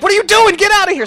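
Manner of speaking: high-pitched, urgent mock shout; imitated friend yelling. Brandon, interrupted with Allison, orders him out, imitated yelling.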